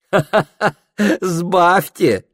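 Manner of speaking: high, loud laughing «Ха-ха-ха» then playful order; girl laughing at his lie about his age, loud. A narrator's reading. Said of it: "Девушка засмеялась".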